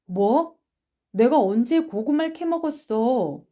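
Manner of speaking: affronted comeback; indignant denial. Acted. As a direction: protest your innocence. Accused boy denies theft.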